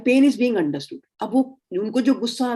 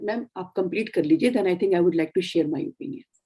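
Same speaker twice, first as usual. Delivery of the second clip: firm and polite. Shown as a demonstration. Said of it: "in a very firm way you can say".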